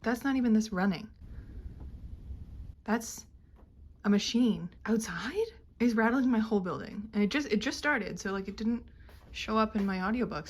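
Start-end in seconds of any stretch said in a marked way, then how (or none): 2.8-7.0 hushed whisper about the noise. Real, not acted. Listening for the rattling machine outside, whispering. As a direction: whisper so the rattle can be heard. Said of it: "whispering about a rattling machine".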